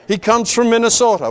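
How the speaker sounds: chuckling through the words; half-laughing as he jokes. Real, not acted. Preacher joking about the laid-back Levite, laughing. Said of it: "a laid-back Levite".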